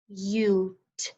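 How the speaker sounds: "C" as a lone k sound with a gap after it; isolated sounds. Shown as a demonstration. Teacher tapping out cute, "C" as an isolated sound. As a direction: sound out "C" by itself, apart from the word. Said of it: "Let's tap this one out".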